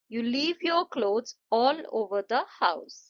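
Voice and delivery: very slow, phrase by phrase, falling on "house"; slow, deliberate declarative with a falling end; falling intonation. Shown as a demonstration. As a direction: model it slowly and let "house" drop. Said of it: "sentences with falling intonation".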